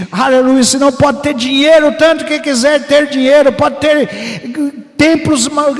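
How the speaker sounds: ordinary talk, nothing marked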